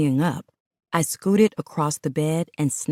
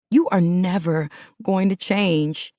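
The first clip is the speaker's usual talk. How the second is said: a touch of tearful sobbing; 3 semitones higher than usual. Acted. Woman sobbing to her partner as he holds her. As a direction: break a little on the words. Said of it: "I sobbed".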